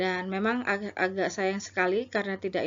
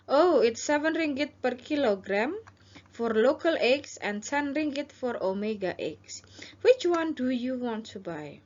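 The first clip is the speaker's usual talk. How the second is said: seller role; 4 semitones higher than usual. Shown as a demonstration. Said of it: "ini adalah penjual".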